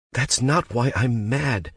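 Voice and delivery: pleading through hurt; anguished. Acted. Becca tells Grant over the phone, anguished. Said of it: "anguished and afraid".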